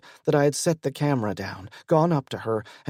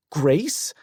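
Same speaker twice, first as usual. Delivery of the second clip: incredulous rising Grace; shocked question; 3 semitones higher than usual. Acted. Wife stunned to hear another woman's name, incredulous. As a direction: repeat the name in disbelief. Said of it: "Elizabeth's mouth fell open".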